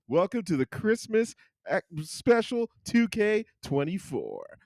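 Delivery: high, drawn-out announcer welcome; hammed-up DJ show opener; radio DJ voice. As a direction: hype the special like a radio jock. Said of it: "my radio D J voice".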